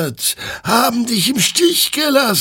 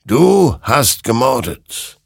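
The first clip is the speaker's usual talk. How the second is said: slow, higher-pitched verdict; grave accusation; 7 semitones higher, 5 dB louder, slower than usual. A narrator's reading. Creature condemns the soldier, slow accusation. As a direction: pronounce the charge slowly, stressing the start.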